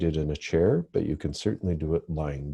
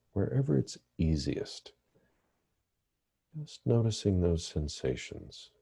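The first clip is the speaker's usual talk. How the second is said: calm, measured meditation guidance with long pauses; guided meditation. Real, not acted. Therapist leading listeners through breathing meditation, calm guided meditation. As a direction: guide listeners gently into the breath, leaving space between phrases.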